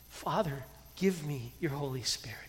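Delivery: soft, hushed whisper to God; whispered prayer. Shown as a demonstration. Pastor showing the congregation how to pray, whispered. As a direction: breathe the prayer like a secret.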